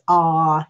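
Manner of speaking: a loud, open "Ah" with the mouth wide; open ah sound. Shown as a demonstration. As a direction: say "Ah" like opening for a throat check. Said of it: "He says".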